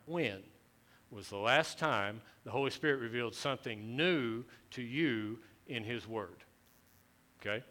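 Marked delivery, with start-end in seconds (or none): 0.1-6.4 "when" set apart by a pause before the rest; stress on when. Shown as a demonstration. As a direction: isolate "when", then carry on deliberately. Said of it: "I want to emphasize the word when".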